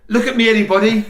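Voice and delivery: put-on high, loud little-girl call; child calling out. Niece at Wagamama calling her mum, high and loud. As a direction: call out like a five-year-old wanting attention.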